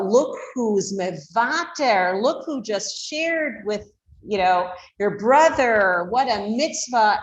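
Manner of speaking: slow, drawn-out delighted praise; excited praise. Shown as a demonstration. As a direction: glow with excitement at the child's sharing. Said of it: "a tone of voice that radiates excitement".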